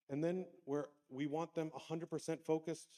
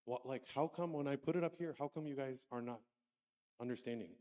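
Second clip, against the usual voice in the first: frustrated. Retold or imitated. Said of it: "finally I was frustrated".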